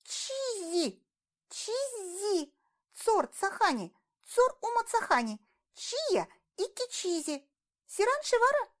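put-on high chirpy alien girl; cartoon princess. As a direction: sing out the names brightly, very high. Alien girl names her family. (высокий щебечущий голосок принцессы)

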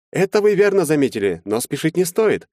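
calm him down condescendingly; smooth lawyer. A narrator's reading.

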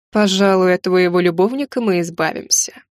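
a hint of a cold villain; dark lord. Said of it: "заявил граф".

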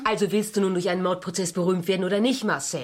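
scolding. Acted. Scolding Marcel.

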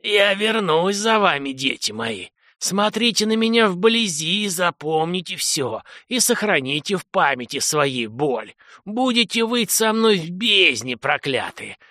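a lightly voiced dying lord's wheezing curse; wheezing angry voice. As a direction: wheeze the curse out through pain. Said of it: "хрипящим злым голосом".

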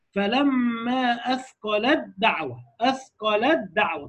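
فلما أثقلت دعوة stretched, تاء merged into دال; slow recitation. Shown as a demonstration. Teacher reciting Quran example for students, slow. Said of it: "طالع من لام على الدال".

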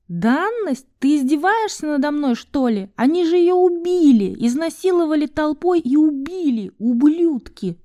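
high, furious, rising to a cry; outraged outburst. Acted. Val raging at Enisa over the murdered woman. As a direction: hurl the accusation in disgust.

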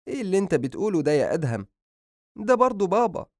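high, quick mother's scolding; mother defending the father to her son; reproachful mother. Acted. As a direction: remind him it's his father.

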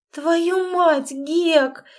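a loud, high wail of despair; howling. Acted. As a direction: wail it out in dismay. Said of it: "взвыла она".

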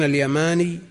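اليماني with a light, undoubled final ya. Shown as a demonstration. Teacher reading the Yamani corner to students, light ya. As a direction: say اليماني with long alif and single ya. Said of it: "بتخفيف الياء".

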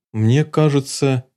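slow, hesitant opening; unsure and shy; gently hesitant boy; timid start. Acted. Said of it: "несмело начал Питер".

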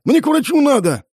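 high, loud furious yell; an injured man yells at his boss; yelling back. A narrator's reading. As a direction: shout back over the boss. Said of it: "заорал я в ответ".

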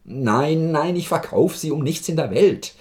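hoch und laut verzweifelt; empört und verzweifelt ablehnen; verzweifelter Schrei. A narrator's reading. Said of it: "schrie der Major Kowaljow verzweifelt". (der Major schreit den Arzt hoch und verzweifelt an)

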